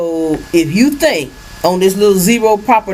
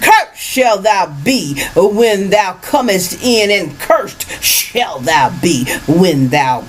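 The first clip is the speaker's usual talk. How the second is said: preaching scripture; 2 semitones higher, slower than usual. Acted. Reads the curses aloud.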